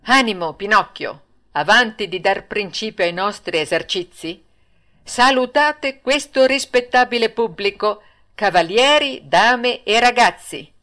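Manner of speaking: lightly voiced ringmaster, slowing at the end; a hint of the showman director; ringmaster commanding. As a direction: announce the greeting to the audience. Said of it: "gli disse".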